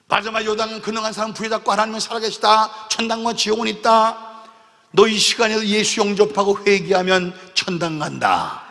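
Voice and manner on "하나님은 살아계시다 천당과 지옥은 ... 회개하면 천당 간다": preaching. Retold or imitated. Preaching proclamation.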